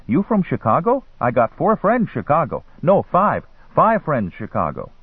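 put-on high-pitched young hustler; Arab boy. A narrator's reading. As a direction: street boy's eager broken English. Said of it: "A slim Arab boy".

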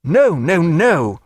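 passionate cry. A narrator's reading. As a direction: cut her off with feeling. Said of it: "he cried passionately".

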